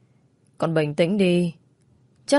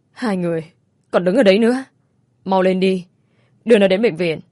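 urgent; 4 dB louder than usual. Acted. Mother urging men to hurry.

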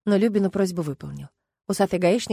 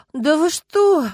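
high, loud shocked gasp; 8 semitones higher, 8 dB louder, much slower than usual. A narrator's reading. Люба hears of the deadly crash, gasping high and loud. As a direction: gasp the words in horror. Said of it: "ахнула Люба".

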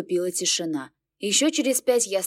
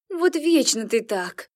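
whiny; 4 semitones higher, slower than usual. A narrator's reading. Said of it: "Ясва расхныкалась".

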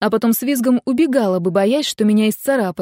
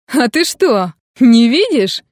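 breathless; 2 semitones higher, 6 dB louder, slower than usual. A narrator's reading. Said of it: "кое-как произнёс он, задыхаясь".

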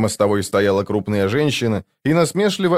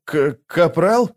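slow, hesitant stammer on the first sound; slowly stammered, puzzled question; startled stammer; 6 semitones higher, slower than usual. A narrator's reading. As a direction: stumble into a halting question.

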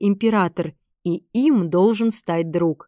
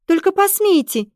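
much higher, fierce dare; defiant; 11 semitones higher, 3 dB louder than usual. A narrator's reading. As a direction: dare them to try. Esther blocking armed soldiers.

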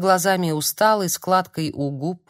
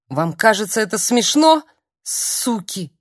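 loud, rising bitter accusation; furious cry; 3 semitones higher, 4 dB louder than usual. Acted. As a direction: lash out at the cruel joke. Furious woman at door.

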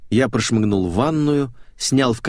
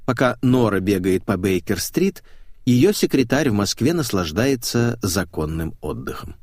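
ordinary delivery, nothing marked

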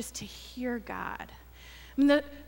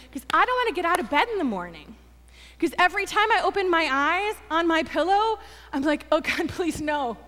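higher, hurried comic outburst; retold exasperation; 5 semitones higher, 3 dB louder, faster than usual. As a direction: act out dreading the morning. Retelling outburst at the counselor.

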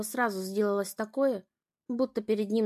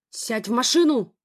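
loud, harsh order; stern command; 8 dB louder than usual. A narrator's reading. Father orders daughter back into the car, loud. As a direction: bark the order. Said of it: "велел он ей".

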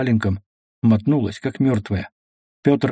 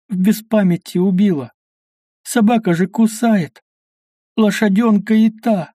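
high, loud, desperate pleading cry; 8 semitones higher, 3 dB louder than usual. Acted. A buried woman begs her mother and God, crying out high and loud in terror. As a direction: scream it out as if begging for her life. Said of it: "Нечем кричать".

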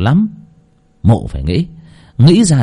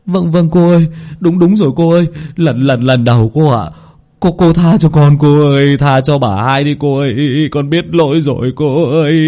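higher, stammering plea; eager begging; 4 semitones higher than usual. Acted. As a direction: grovel and agree quickly. Nam nodding, begging mistress. (giọng khúm núm van xin)

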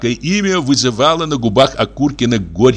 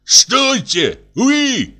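call out; 12 semitones higher, much slower than usual. Acted. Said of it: "замахал им руками".

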